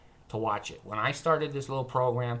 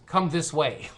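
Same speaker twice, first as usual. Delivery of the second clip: ominous host; 3 semitones higher, 5 dB louder, slower than usual. Retold or imitated. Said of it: "the way he was speaking".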